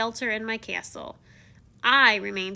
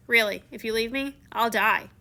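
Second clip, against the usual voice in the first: serious. Retold or imitated. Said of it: "my voice became serious".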